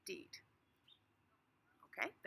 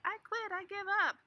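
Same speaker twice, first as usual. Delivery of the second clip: higher, louder, throwing up your hands; a fed-up cry of giving up; exasperated quitting; 11 semitones higher, 8 dB louder than usual. Acted. Acting out quitting.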